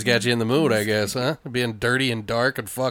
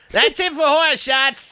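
announcer hype; 12 semitones higher than usual. Acted. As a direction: sell the segment name like a show host. Announcing segment name.

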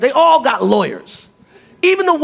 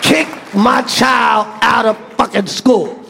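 mock desperate plea; slower than usual. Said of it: "I was like".

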